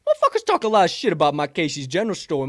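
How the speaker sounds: loud, high mock rant, even bigger; hyped rant. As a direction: go all in on the promo.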